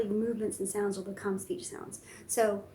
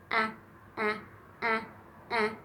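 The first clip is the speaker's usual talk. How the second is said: bunny ahs. Pretend. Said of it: "the bunny goes".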